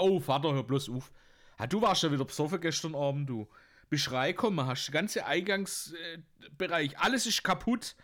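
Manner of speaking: the son heatedly tells his father off; son scolding father. Acted.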